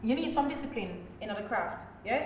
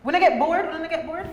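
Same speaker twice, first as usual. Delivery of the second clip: mock bored whine; 6 semitones higher, 7 dB louder than usual. Mock whining about long run.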